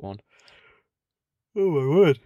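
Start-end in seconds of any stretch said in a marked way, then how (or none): 1.6-2.2 sudden loud higher "Oh my word"; startled exclamation. Real, not acted. Podcaster startled mid-apology, loud surprised outburst. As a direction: blurt it out, caught off guard.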